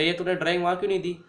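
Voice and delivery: fast, a mild imitation of an angry dad; angry father. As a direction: rattle it off like a scolding father, only lightly angry. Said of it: "तो बड़े गुस्से से बोले". (गुस्से में तेज़ बोलते पापा की हल्की नकल)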